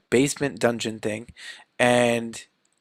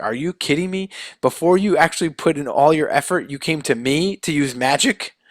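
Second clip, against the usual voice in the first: raised-pitch mock exasperation; incredulous scolding; 2 semitones higher than usual. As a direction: act out disbelief, mildly indignant. Doctor Strange incredulous at Peter's request.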